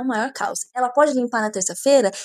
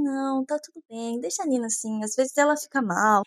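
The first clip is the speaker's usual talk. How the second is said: soft soothing husband; 6 dB quieter than usual. Retold or imitated. Andrew soothing about Nina.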